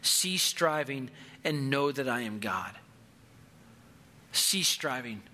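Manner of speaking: slow, measured, settled assurance; calm and confident. Acted. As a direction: say it slowly and calmly, letting it settle. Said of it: "could so calmly and confidently".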